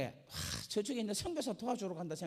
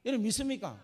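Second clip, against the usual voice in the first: rousing question; 5 semitones higher, 7 dB louder than usual. Real, not acted. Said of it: "repeated altar call".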